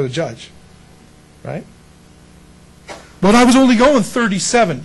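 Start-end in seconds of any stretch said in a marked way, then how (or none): 3.2-4.8 pleading driver. Retold or imitated.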